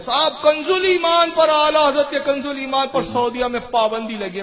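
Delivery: imitated boast, lifted at the start; mock an opponent's proud announcement. Preacher imitating opponents proudly announcing a ban, mock boastful. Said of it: "بڑے بڑے فخر سے کہتے ہیں".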